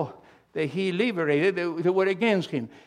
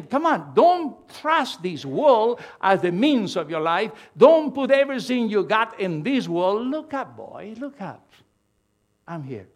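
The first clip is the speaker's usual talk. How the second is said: voice of God pleading; 3 semitones higher, 4 dB louder than usual. Acted.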